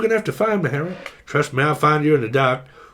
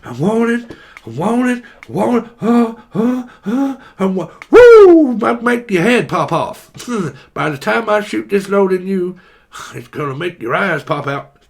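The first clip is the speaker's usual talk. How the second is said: hammed-up excited voice; 3 semitones higher, 4 dB louder than usual. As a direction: act the overexcited one, hammed up. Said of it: "what I'm hearing is".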